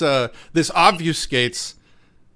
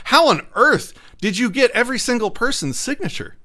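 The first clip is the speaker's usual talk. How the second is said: higher, fake-incredulous question; mock disbelief; 8 semitones higher than usual. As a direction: ask it in put-on disbelief, pitch up. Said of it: "Arbitrator would be like".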